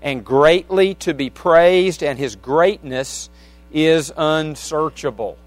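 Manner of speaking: measured, emphatic psalm reading; scripture reading. Real, not acted. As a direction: read the verses out to the congregation with weight. Reads a psalm aloud.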